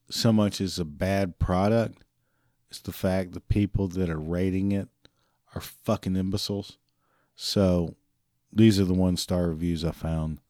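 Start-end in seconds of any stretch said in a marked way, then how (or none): 2.7-6.8 whispered insult aside. Real, not acted. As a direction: hiss it out without voice.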